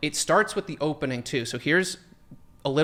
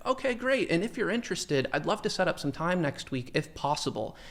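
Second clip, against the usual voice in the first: overly polite ask; 4 semitones higher, 3 dB quieter than usual. Retold or imitated. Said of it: "little caveats on there".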